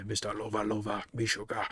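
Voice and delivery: put-on light Jamaican accent like a reggae singer; a touch of Jamaican dancehall swagger; Jamaican reggae style. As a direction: croon it like a reggae hook. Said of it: "out of a reggae song".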